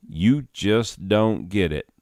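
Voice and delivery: slow, mistaken take on the stranger's drawl; wrong drawl. Acted. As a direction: deliver "You just don't get it." slowly in the wrong drawl. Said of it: "I was doing different drawl".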